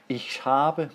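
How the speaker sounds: "Ich habe" said the German way, close to "I have". Shown as a demonstration. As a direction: read "Ich habe" as a German model phrase. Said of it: "sounds like I have".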